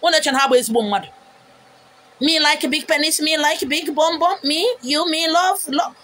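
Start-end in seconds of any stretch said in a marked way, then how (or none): 2.2-5.9 slow, mocking pidgin drawl; mock broken English. Mocking the commenter's crude broken English, slow parody. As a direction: parody the troll's clumsy words. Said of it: "watch their Z word".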